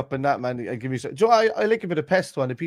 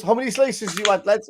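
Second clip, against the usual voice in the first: much higher hammed-up server voice; pizza man; 10 semitones higher, 4 dB louder than usual. Pizza man asking the lads, much higher mock voice. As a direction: squeak the question up high. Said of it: "he goes".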